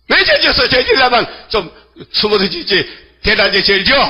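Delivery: high-pitched playful telling-off; imitated indignant reproach; mock scolding. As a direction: scold the culprit, pitch jumping up.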